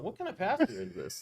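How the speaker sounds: high, disbelieving outburst; surprised and baffled at the cursing pastor; incredulous retold question. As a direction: pitch it up in amazed disbelief. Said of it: "And I'm like".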